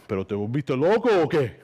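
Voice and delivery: a stunned Spanish-speaking dad. Retold or imitated. Dad finding son dancing in a taco costume, stunned. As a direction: blurt it out in disbelief.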